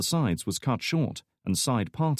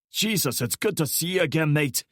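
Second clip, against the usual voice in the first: joyful greeting; 7 semitones higher than usual. A narrator's reading.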